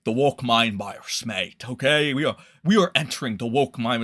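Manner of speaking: put-on Elon Musk accent. Streamer repeating the tweet as Elon, in mock Elon accent. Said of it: "just sounds like an Elon accent".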